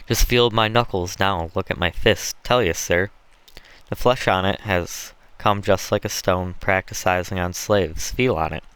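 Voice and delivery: lightly voiced rough Southern slave trader; hint of a swaggering overseer; boastful planter.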